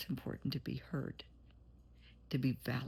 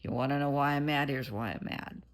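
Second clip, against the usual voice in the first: louder, frank opening that drops at the end; right way, direct; 5 dB louder than usual. Shown as a demonstration. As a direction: show the honest, direct way to say it. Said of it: "Use your words".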